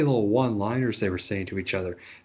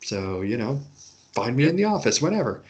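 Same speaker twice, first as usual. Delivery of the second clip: mock casual boss. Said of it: "being like".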